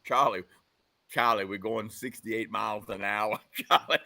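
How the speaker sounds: lightly voiced calm Rocky; Rocky imitation. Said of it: "you do a really good Rocky imitation".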